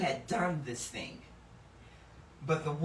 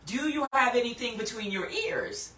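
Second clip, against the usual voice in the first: sarcastic; 5 semitones higher than usual. Retold or imitated. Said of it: "a sense of".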